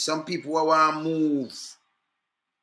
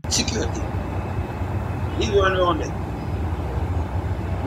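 breathy whisper, very slow; 3 semitones higher, much slower than usual. Real, not acted. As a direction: whisper it under your breath. Whispered aside.

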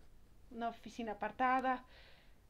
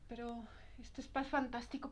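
soft unvoiced whisper of delight; 5 dB quieter than usual. Client whispering to herself about the spa, hushed. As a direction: breathe it out in awe.

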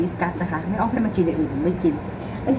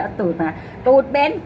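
higher, louder order to a pet; playful command to the cat; bossing the cat; 5 semitones higher, 3 dB louder than usual. Real, not acted. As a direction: shoo the cat round. Telling the cat to move.

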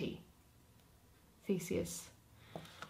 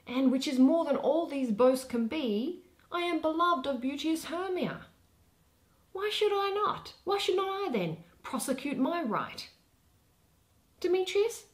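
higher, louder, building protest; rising indignation; 9 semitones higher, 4 dB louder than usual. Acted. Lysander arguing his claim before Theseus, rising indignation. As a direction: build to an outraged question.

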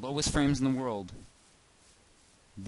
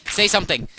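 high, loud pleading yell; hammed-up loud begging; mock-desperate shout; 11 semitones higher, 14 dB louder than usual. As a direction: shout it as an exaggerated demand. Pleads loudly with silent game animals.

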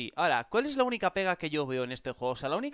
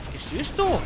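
high, loud disbelieving question; sudden high-pitched shock; startled yell; 12 semitones higher, 7 dB louder than usual. Real, not acted. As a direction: cry out in astonishment. Startled by game event.

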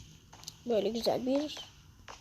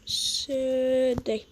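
slow whisper; much slower than usual. Real, not acted. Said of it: "slow whisper".

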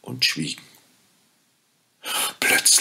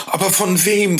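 put-on high, bright-eyed child voice asking; lightly voiced startled child; curious children; 11 semitones higher, 4 dB louder than usual. A narrator's reading. Children asking the fairy, in a high child voice.

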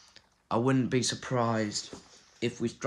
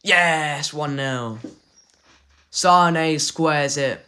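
excited; 4 semitones higher, 8 dB louder, much slower than usual. Real, not acted. Celebrates goal in game.

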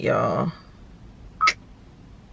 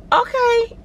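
mock surprised okay. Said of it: "I was like".

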